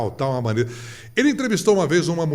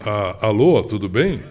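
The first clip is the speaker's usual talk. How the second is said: mock phone greeting; 5 semitones lower, 5 dB louder than usual. Friend answering the phone.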